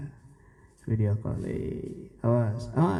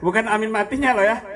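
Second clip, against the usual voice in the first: laughing joke; 5 semitones higher, 4 dB louder than usual. Real, not acted.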